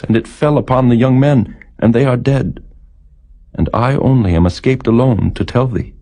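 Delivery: a hint of a breathless servant bearing bad news; messenger's report.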